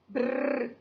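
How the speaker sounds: a buzzing brrr to show the R in br; rolled R demo. Shown as a demonstration. Teacher shows pupils the br sound, rolled. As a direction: roll the r like a motor. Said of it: "também é forte".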